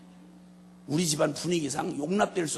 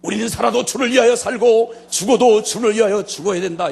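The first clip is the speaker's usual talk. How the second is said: loud rally-style proclamation; booming declaration over dinner; shouted slogan; 6 semitones higher, 13 dB louder than usual. Retold or imitated. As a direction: bellow it like a party slogan. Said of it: "밥 먹다가 제가 갑자기 예고 없이".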